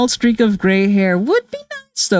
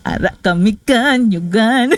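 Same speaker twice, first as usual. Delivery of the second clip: Filipino accent. Shown as a demonstration. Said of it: "very thick Filipino accent".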